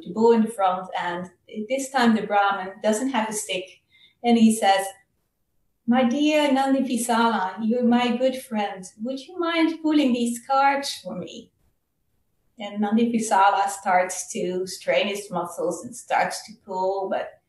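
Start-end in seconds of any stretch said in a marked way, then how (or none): 5.9-11.5 gently pleading, a bit higher; kind coaxing. Acted. Brahmin sweetly asking his bull to pull the carts, kind coaxing. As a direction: coax your friend sweetly. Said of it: "saying kind words to him".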